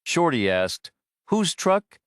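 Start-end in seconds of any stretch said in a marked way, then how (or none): 1.3-2.0 high, curious question; surprised question. A narrator's reading. Character asks in dialogue.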